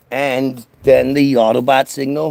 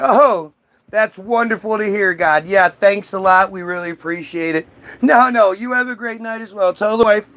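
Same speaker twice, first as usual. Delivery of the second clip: high, sugary phone politeness; fawning salesman; 6 semitones higher than usual. Retold or imitated. Salesman Paul gushing thanks to God, high and sugary. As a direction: gush thanks to the boss. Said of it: "Paul's like".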